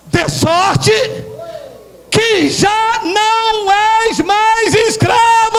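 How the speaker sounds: high, stretched-out triumphant declamation; fervent preacher's cry; full-force preaching. Real, not acted. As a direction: proclaim it slowly to rouse the congregation.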